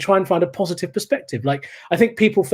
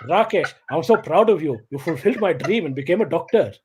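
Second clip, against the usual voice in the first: swooping, doting father voice; imitated proud dad. Dad praising the imagined doctor son, mock proud. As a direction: gush over a favourite son in dad's voice. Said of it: "my dad's going in there talking to".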